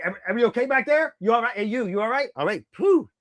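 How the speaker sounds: quick, high check on everyone; genuine concern. Retold or imitated. Fan retelling a wrestler checking on everyone, genuine concern. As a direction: imitate someone earnestly checking people are okay. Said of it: "like, all very genuine".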